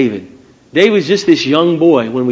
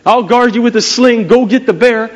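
raised-pitch mock cheering; cheering him on; 7 semitones higher, 4 dB louder than usual. Imagined supporter urges Dave after the bear, mock cheering. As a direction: call out encouragement, higher and animated. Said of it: "cheering him on".

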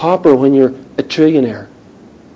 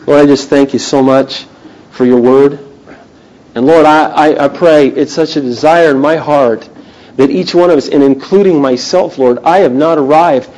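prayer; 2 semitones lower than usual. Real, not acted. Leads prayer.

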